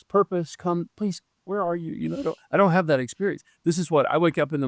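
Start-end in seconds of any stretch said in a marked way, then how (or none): 0.0-1.9 softer, higher mock plea; mock pleading. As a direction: coax something lost to come out. Pretends to call out for purpose.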